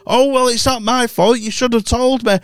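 mock gran defensive. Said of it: "we're arguing".

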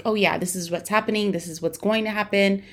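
flat robotic doctor, slightly fast. Retold or imitated. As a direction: rattle it off like a robot.

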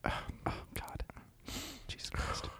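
barely audible whispered muttering; faint sounds. Shown as a demonstration. Host demonstrating faint sounds in awkward silences, faint whisper. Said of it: "the faint sounds like".

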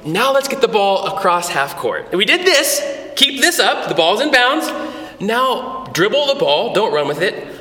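put-on rally the kids from the sideline; youth coach. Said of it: "you're like".

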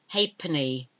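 "Halfpenny" said HAY-penny, no f and no l; correct old pronunciation. Shown as a demonstration. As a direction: say "Halfpenny" as HAY-puh-nee. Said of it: "You don't pronounce the F".

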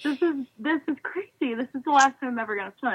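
rising, rushed mock-outrage at the advice; indignant retold protest. Swimmer protesting to her coach before the big race, incredulous.

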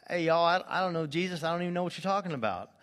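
Peter's denial in a Texas drawl; mock Texas drawl. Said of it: "doing it in a Texas drawl".

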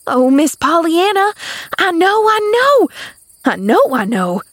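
loud, soaring high cries, then dropping; rapturous exulting. A narrator's reading. Maid suddenly solving the mystery, rapturous. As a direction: burst out in triumphant rapture. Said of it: "she exulted rapturously".

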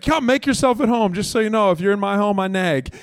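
sing-song host who admits she nags; nagging hostess. Retold or imitated. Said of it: "She's like".

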